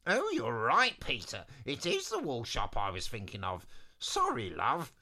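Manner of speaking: lightly voiced, conceding wizard; chatty wizard. First wizard admits mistake to Eliza, chatty voice. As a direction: swoop up on the apology.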